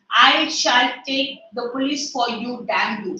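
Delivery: angry. Acted. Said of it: "And he's very angry".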